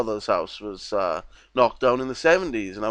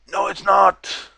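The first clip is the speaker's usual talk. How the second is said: higher, flat-out dismissive no; scoffing denial; 7 semitones higher, slower than usual. Real, not acted. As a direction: shoot the idea down hard. Scoffing at the claim.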